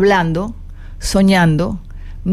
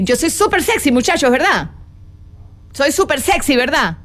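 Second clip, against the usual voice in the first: yo soy súper sexy pitched up high, teasing; playful flirty affirmation; 4 semitones higher than usual. Shown as a demonstration. Teacher joking with her students, flirty and high-pitched. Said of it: "hazte una serie de afirmaciones".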